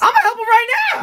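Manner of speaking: high, loud and eager. Acted. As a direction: jump at the chance. Eager to help the handsome customer.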